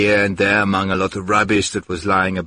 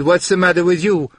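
alarmed scolding; 6 semitones higher, 3 dB louder than usual. Acted. Maria scolding the starving man.

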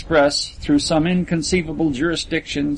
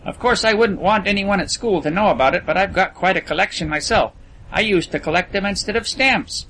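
put-on higher, half-boastful young heir; lightly voiced confiding rich boy; 5 semitones higher than usual. A narrator's reading. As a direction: let him in on a secret, proudly. Narrator voices Percy.

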